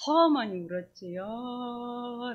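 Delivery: mock wail with a long drawn-out ending. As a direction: stretch the last syllable into a pretend cry. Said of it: "라고 울었다가". (말끝을 길게 끌며 엉엉 우는 흉내)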